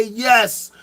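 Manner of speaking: a lightly put-on solemn divine voice, slow in places; a hint of a booming deity, mostly his own voice; voicing Allah. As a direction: play God confirming the truth, measured and grand. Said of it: "and Allah can say".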